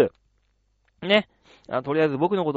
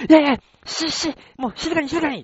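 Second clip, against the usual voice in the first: higher, urgent shushing; hushing fan lady; 10 semitones higher than usual. Retold or imitated. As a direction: hush her down in a high voice. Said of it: "hushing the fan lady". (慌てて静かにさせる高い声)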